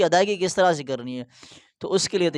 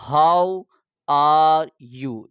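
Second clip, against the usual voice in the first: the whole phrase in one go, louder; full phrase demo; 5 dB louder, much slower than usual. Shown as a demonstration. Teacher giving the finished sentence to viewers, loud and clear. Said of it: "یہ جملہ بولنے کے بعد".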